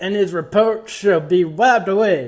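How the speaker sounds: loud start, Southern preacher cadence; preacher verse recital. Acted. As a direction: boom out the scripture like a preacher. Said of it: "I'm changing verses".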